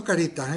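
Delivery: CARITAS stressed on the middle syllable, ca-RI-tas; caritas mal acentuado. Shown as a demonstration. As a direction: say "caritas" with the stress moved onto RI. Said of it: "Como te dicen que vas a Sanitas". («caritas» con acento llano, ca-RI-tas)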